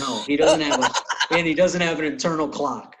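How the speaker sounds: talking through a laugh. Real, not acted. Friend laughing at Cat having no internal clock. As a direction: chuckle while agreeing.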